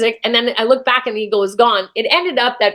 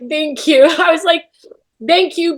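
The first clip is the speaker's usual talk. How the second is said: higher, emotional thanks with a small laugh; tearful gratitude; 5 semitones higher than usual. Real, not acted. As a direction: give heartfelt thanks while choking up. Emotional farewell to former self.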